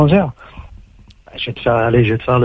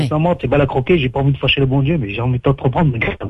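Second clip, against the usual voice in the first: plain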